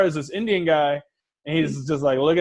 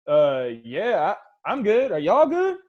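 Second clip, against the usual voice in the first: nervous squeak; slower than usual. Retold or imitated. Nervous reply to gangsters.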